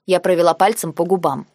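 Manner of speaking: ordinary delivery, nothing marked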